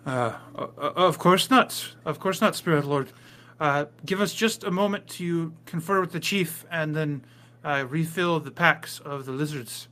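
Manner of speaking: lightly voiced villager, stammering deference; flustered villager. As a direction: stumble into agreement to placate a spirit lord.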